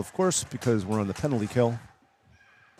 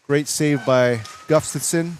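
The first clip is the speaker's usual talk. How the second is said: excited shout; 2 semitones higher than usual. Real, not acted. Big save, shout heard.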